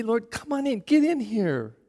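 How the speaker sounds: soft, pleading prayer, slowing at the end; intimate prayer. Shown as a demonstration. A preacher showing the congregation how to pray, softly. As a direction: pray it softly, drawing God close. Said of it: "shouldn't we say".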